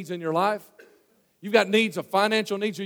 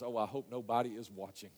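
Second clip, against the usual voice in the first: low, soft acted aside; hushed, self-conscious inner voice; embarrassed private thought; 8 semitones lower, 14 dB quieter than usual. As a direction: think it aloud, very quietly.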